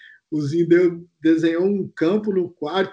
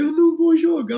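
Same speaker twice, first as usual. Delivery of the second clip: imitating crying; 10 semitones higher than usual. Teammate at night fearing Beckham, mock sobbing high wail. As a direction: play the sobbing teammate, pitch way up and drag it.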